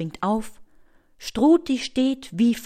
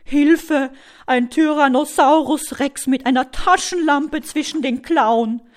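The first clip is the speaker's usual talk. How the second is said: high, loud cry for help; panicked dinosaur squeal, louder and higher; squealing alarm; 5 semitones higher, 7 dB louder than usual. A narrator's reading. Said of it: "Struti quiekt".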